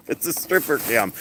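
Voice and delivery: laughing through the words; giggling repeat. Real, not acted. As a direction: repeat it while cracking up.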